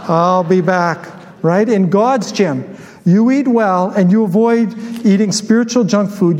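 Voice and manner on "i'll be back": put-on slow, drawn-out German-accented catchphrase; movie catchphrase in a put-on German accent. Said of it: "say it with a German accent".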